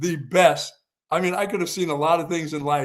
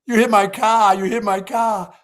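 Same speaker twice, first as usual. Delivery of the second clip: higher, louder mock accusation; imitating the upset driver; 6 semitones higher, 6 dB louder than usual. Retelling the casino guy accusing him, higher and louder. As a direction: jab out a retold accusation. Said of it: "and he goes".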